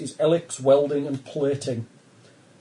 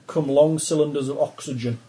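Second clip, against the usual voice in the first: ordinary talk, nothing marked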